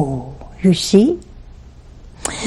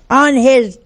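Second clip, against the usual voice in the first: mock heated widow; 3 semitones higher, much slower than usual. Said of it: "boy, she's getting hot".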